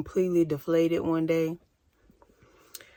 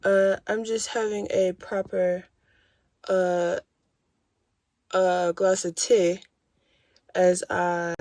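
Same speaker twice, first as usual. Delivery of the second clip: mock posh duchess. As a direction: play the lady of leisure with tea. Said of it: "My intention was to be a duchess".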